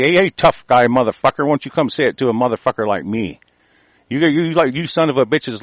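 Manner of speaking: real furious taunt at a TV host; angry challenge. Real, not acted. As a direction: square up and dare him to say it to your face. Challenging Don Lemon directly.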